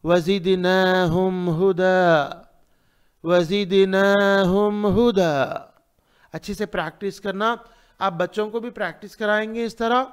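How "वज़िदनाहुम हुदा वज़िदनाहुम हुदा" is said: slow, even chant with lengthened vowels; tajweed recitation. Shown as a demonstration. Teacher recites for students to practise, measured tajweed. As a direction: recite slowly for repetition, holding each long vowel. Models verse for repetition.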